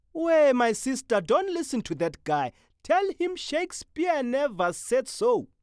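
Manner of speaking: loud, high playful shout; exuberant calling. Acted. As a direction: banter at full volume. Exuberant platform banter.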